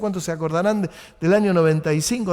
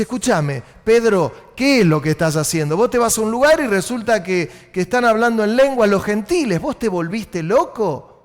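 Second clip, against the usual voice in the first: louder, challenging the apostle; mock indignation; 3 dB louder than usual. Jerusalem brothers confronting Pedro, mock indignant. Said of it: "se armó un revuelo terrible porque dice".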